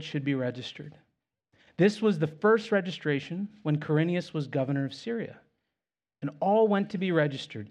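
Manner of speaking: measured Bible reading; scripture reading. Acted. Pastor reading Luke two to the congregation in a measured scripture voice. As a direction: read the passage with reverence.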